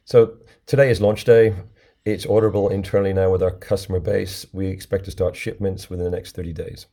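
hoarse, under the weather; croaky from a sore throat. Real, not acted. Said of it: "my croaky voice".

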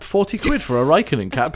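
slight Yorkshire accent, indignant; a touch of Yorkshire on the price. Real, not acted. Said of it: "you even said that in a Yorkshire accent".

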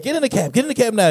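lightly put-on Middle Eastern accent, urging. Cab driver coaxing a passenger in, light Middle Eastern accent. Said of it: "That's my Middle Eastern voice".

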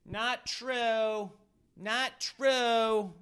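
high, quiet mock old lady; a lightly voiced nagging old lady; soft high mock heckle; mimicking the heckler. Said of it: "immediately she was like".

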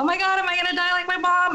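high, rushed retelling of a frightened question; retold tearful panic. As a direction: re-enact blurting it out in panic, pitched high. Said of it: "And I'm crying".

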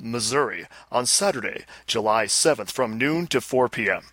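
lightly impersonated rock star; a hint of pompous celebrity proclamation; Gene Simmons. Host reading listener's letter as the star, light impersonation. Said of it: "do this in the Gene Simmons voice".

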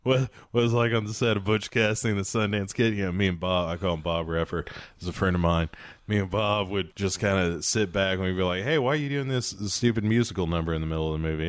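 reminiscing film star, lightly imitated; Paul Newman. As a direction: ease into a mild impression of a storytelling actor. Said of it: "Newman is like".

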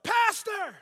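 high, full-volume imitated holler; re-enacted shout from the crowd; yelling out. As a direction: holler across a church to interrupt the preacher. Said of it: "this guy yells out".

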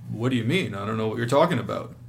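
sarcastic "what do you mean"; mildly antagonistic question; edgy, aggressive. Shown as a demonstration. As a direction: push back with a defensive edge. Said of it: "that kind of sounds almost aggressive".

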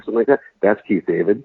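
normal talking voice

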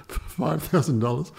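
slow, rising incredulous "Five thousand dollars?"; incredulous agent. Retold or imitated. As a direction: repeat the sum like you can't believe it. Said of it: "He said".

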